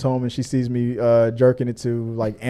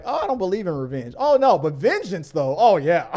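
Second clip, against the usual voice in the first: Simpsons character voice; 4 semitones higher than usual. Retold or imitated. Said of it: "one of the characters was like".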